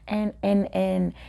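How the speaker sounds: high, disbelieving question; stunned classmates. Retold or imitated. Classmates gaping at the giraffe story, high disbelieving. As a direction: sputter in disbelief. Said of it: "They were like".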